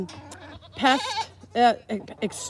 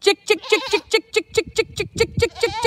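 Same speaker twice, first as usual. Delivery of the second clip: calling chickens; 11 semitones higher than usual. Real, not acted. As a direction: call the flock in from across the yard.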